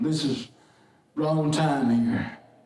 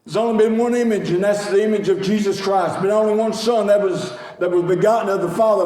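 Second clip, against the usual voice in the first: loud, building sermon climax with a shouted plea; full-force preaching; 3 dB louder than usual. Acted. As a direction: call the congregation to shout. Preacher driving his point home.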